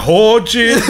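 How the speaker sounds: put-on Irish accent, breaking up laughing; mock Irish accent. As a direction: imitate an Irish outburst through laughter. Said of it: "there's one bit, it's like".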